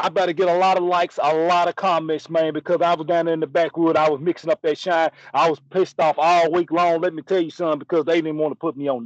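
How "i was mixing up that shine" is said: ordinary talk, nothing marked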